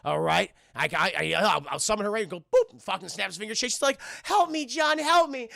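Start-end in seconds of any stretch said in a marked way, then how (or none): 4.2-5.5 put-on high, loud little-girl plea; mock cry for help. Summoned girl calling to John, mock cry for help. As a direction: plead loudly in a put-on high voice.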